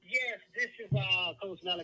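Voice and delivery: muffled, like talking inside a fishbowl; boomy phone line, as if under a glass bowl. Real, not acted. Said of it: "You sound like you're in a fishbowl".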